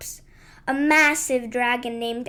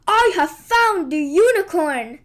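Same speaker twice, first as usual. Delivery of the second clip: louder dragon threat; growling dragon; 2 semitones higher, 5 dB louder than usual. Acted. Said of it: "Emberclaw growled".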